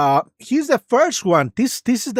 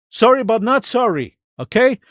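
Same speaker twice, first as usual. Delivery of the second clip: smug sarcastic chuckling; 4 semitones higher than usual. Real, not acted. Laughing mock apology.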